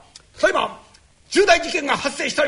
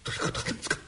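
whispering while hiding; 11 dB quieter, much faster than usual. Acted. Peeking at the crime scene.

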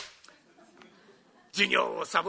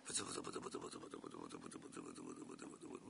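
much lower, much softer fast mumbling; inaudible mumble; 20 dB quieter, much faster than usual. Retold or imitated. Distracted doctor mumbles to the patient, inaudibly. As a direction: mutter unintelligibly under your breath.

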